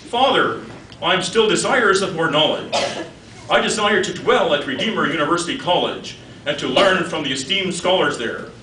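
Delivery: mock-earnest daughter making a formal request; a hint of a daughter petitioning; lightly voiced daughter. Daughter asking father to let her study, lightly mock-earnest.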